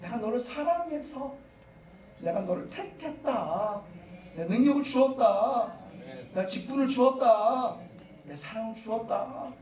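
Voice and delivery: a lightly voiced, gentle Lord; tender Lord. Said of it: "주님은 그래". (부드럽게 달래는 주님)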